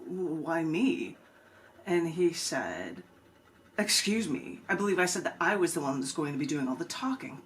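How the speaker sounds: spoken-word poem, told as a story with voices; poem performance. Acted. Poet reading her poem to the open mic crowd, performed.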